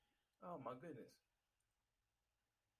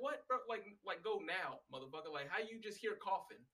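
raised, louder disbelief at a coworker; exasperated what-the-hell rant; high, loud retold indignation; incredulous outburst; 5 semitones higher, 3 dB louder than usual. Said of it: "I'm like".

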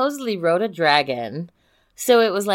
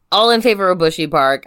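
loud, formal call for a vote; mock motion; 6 dB louder than usual.

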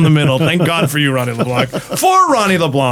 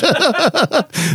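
high giggling burst; hysterical laugh; 10 semitones higher than usual. Real, not acted. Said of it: "Why are you laughing so hard?".

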